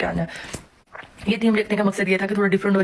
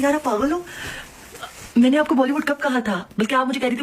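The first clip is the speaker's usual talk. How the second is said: pitched-up exasperated scolding; angry, higher; 4 semitones higher than usual. Retold or imitated. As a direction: let it burst out in disbelief. डेकोर वाली लड़की पर भड़कना. (ऊँची आवाज़ में गुस्से से डांटना)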